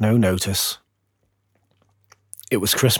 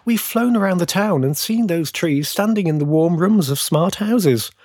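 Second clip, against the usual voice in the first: high, eager bird voice; chirping sparrows; 6 semitones higher than usual. A narrator's reading. Sparrows describing decorated Christmas trees, high and chirpy. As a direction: chatter it pitched up, like excited sparrows. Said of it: "they chirped as they huddled".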